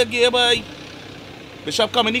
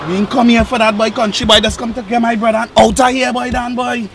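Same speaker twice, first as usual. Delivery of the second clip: loud, forceful demand; loud angry demand; 2 semitones higher, 7 dB louder than usual. Acted. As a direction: bark it at them angrily. Demanding brother back, confrontation.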